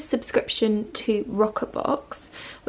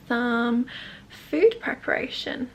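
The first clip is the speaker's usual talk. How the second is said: whisper; 5 dB quieter, slower than usual. Real, not acted. Dips into a whisper.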